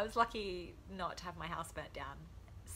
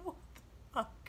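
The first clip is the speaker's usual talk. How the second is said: laughing disbelief; 6 semitones higher, 7 dB quieter than usual. Retold or imitated. Retold shock at officer.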